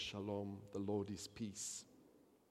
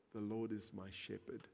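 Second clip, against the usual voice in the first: softer, quiet echo of the verse; softly repeated; 5 dB quieter than usual. Shown as a demonstration. Preacher repeating the psalm to himself, softly. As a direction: let it fall gently the second time.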